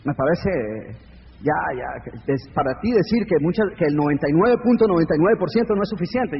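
imitación leve, más grave y suave; un escéptico que objeta con cortesía; interlocutor escéptico. Retold or imitated. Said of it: "Y me decía". (alguien le objeta a Camilo, leve imitación grave)

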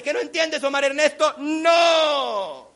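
high, loud telling-off; scolding mother. Retold or imitated. Mom scolds son using both his names, loud and angry. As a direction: shout the refusal like a fed-up mom. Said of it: "te pone los dos nombres para regañarte".

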